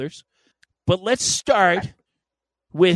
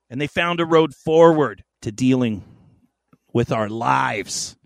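dramatic storyteller voice; 3 semitones higher, 4 dB louder than usual. Acted. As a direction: tell it like an old legend. Grand segment narration.

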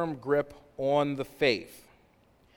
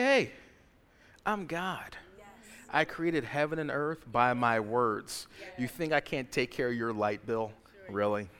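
mock-unbothered God voice; 4 semitones lower than usual. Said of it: "He's like".

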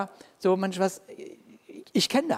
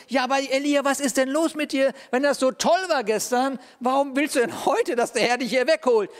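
higher, coaxing questions; lightly voiced God asking Elijah why; God questioning Elijah; 6 semitones higher than usual. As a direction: gently press Elijah for a reason.

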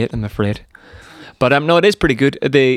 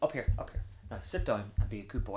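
scolding the dog; 17 dB quieter, faster than usual. Real, not acted. Host aside to his dog, quiet scolding. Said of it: "I have to scold my dog again".

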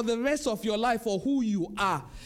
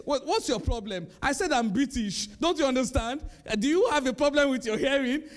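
mock upset. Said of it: "He got really upset".

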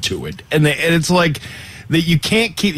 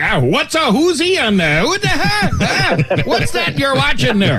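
put-on cranky old man grumbling, pitched up; 10 semitones higher than usual. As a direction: grumble like a baffled grandpa. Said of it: "I sound like the old man".

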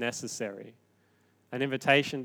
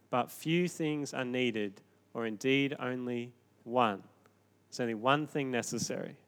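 gentle; 5 dB quieter than usual. Retold or imitated. Jesus gently answering Martha.

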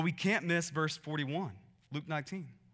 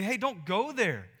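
earnest warning; 5 semitones higher, 3 dB louder than usual. Retold or imitated. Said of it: "you wanna say".

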